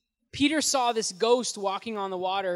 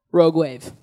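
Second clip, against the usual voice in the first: louder, punching ROGUE and wave; loud dramatic announcement; 4 semitones lower, 10 dB louder than usual. Acted. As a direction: announce the threat with a loud jolt. Wave hits Peter in story.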